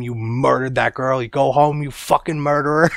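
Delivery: building, high-pitched mock yell; mock screaming. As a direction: imitate a furious accuser without full volume. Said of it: "Adam's screaming at him".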